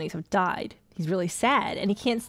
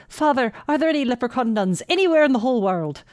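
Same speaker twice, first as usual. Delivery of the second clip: eager leprechaun; 4 semitones higher, 4 dB louder than usual. Acted. Leprechaun's final, bigger question.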